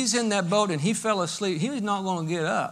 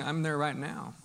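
quiet admission; 4 semitones lower, 9 dB quieter than usual. Acted. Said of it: "Some of you are saying".

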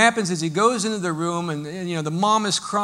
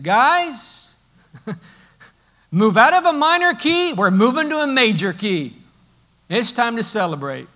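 much higher, louder, laughing cheer; joyful announcement; 5 semitones higher, 8 dB louder than usual. Pretend. Jesus tells the mourners' band to play happy music, laughing. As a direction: burst out in celebration.

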